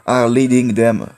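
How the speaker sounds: very slow, laboured English accent; drawn-out, careful English accent with pauses; attempted English accent. Real, not acted. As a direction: read word by word in effortful French-accented English. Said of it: "on ne parle pas mon accent".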